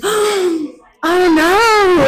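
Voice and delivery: high, loud wailing Australian "oh naur"; mock Australian accent. American mimicking her friend's dismay, hammed-up Australian accent. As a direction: exaggerate an Australian whine. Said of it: "it's exactly what you sound like".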